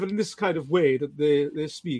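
demonstrated Inverness accent. Shown as a demonstration. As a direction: speak as they do up in Inverness. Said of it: "in sort of Inverness up there".

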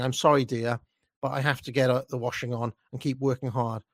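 lightly mimicked old-woman apology; a hint of working-class old dear. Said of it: "horrible working-class old woman way of saying".

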